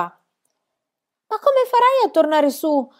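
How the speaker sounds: high, loud, stretched-out question; anxious cry. A narrator's reading. Girl calls to friend stuck inside tree, high cry. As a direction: cry out slowly to someone down a hole. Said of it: "gridò Annika".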